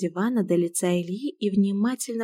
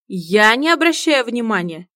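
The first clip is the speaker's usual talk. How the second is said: indignant; 4 semitones higher, 6 dB louder than usual. Acted. Indignant protest.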